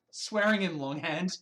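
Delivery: loud, mocking question on "Swearing", rising at the end; loud sarcastic cartoon retort, "Swearing" stressed and the end rising; Sam and Max quote. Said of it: "this is Sam and Max quote".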